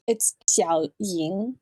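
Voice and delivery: Xiao Ying slowly, with a clear Mandarin X; correct pronunciation. Shown as a demonstration. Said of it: "hard time with the X sound".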